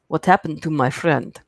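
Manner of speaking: attempted Russian accent. Shown as a demonstration. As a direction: put on an amateur Russian accent. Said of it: "that's gonna be my ac-, my Russian accent".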